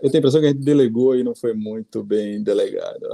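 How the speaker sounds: words broken up by a light laugh; laughing while talking. Real, not acted. Panelist admits a mistake to the host, laughing. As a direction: chuckle through the admission.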